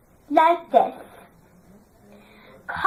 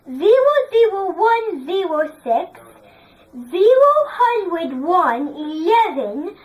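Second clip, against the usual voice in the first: model reading. Shown as a demonstration. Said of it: "read it all in English accent like this".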